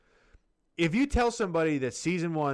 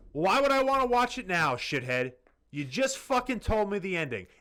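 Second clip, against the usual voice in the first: mock exasperated retort; 4 semitones higher than usual. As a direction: fire back at the spoiler like you're fed up. Retold retort to a spoiler.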